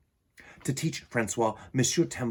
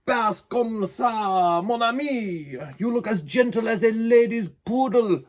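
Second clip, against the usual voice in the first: higher, louder scolding showman; exasperated ringmaster; 9 semitones higher, 5 dB louder than usual. A narrator's reading. Circus owner scolding the gentle lion, high and loud. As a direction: chide him like a fussy trainer.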